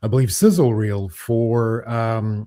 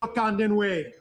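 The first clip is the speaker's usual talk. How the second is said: booming high king voice, slow; roaring tyrant king; 10 semitones higher, slower than usual. Acted. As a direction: proclaim it like a mighty king. Comedy sketch, king impression.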